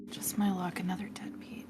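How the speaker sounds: whispered, bitter grumble under the breath; muttered under breath. Acted. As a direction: mutter it to yourself, barely voiced. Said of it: "Lily just mumbles under my breath".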